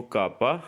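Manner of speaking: کاپا with stress on the first syllable; K named کاپا; Italian letter name. Shown as a demonstration. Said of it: "کے کو".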